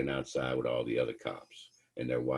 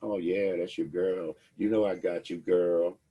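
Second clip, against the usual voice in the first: fake-friendly cop; 2 semitones higher than usual. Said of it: "trying to manipulate you".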